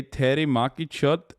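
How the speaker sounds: "Terry Maki Chut" in attempted Hindi pronunciation; careful Hindi pronunciation. Shown as a demonstration. Streamer repeating a phrase from chat, careful Hindi pronunciation. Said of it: "trying to say words correctly".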